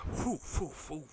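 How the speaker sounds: imitated whooshing. Imitates beers being slung out.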